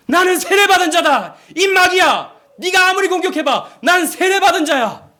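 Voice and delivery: high, loud cry hurled at the devil; defiant shout. Acted. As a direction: shout your defiance in full earnest. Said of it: "이렇게 외쳤다고 하죠".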